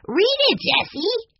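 put-on high, pleading little boy; eager urging. A narrator's reading. Benny urging his sister to read the clue, eager. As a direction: urge her on impatiently. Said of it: "Benny urged".

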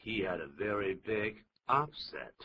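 "upset" stressed on UP; stress on first syllable. Shown as a demonstration. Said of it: "重音就在第一个音节".

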